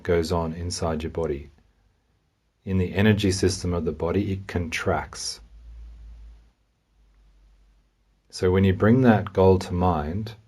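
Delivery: calm, unhurried guidance with long pauses; guided meditation. Real, not acted. Meditation guide helps listener notice anxiety in the body, calmly. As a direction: gently lead a listener inward, leaving room to feel.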